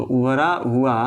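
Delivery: उभरा हुआ said slowly, word by word, for note-taking; slow dictation of उभरा हुआ. Shown as a demonstration. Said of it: "ऐसे लिख लीजिए इसको".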